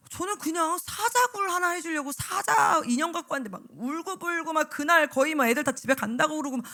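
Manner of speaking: ordinary delivery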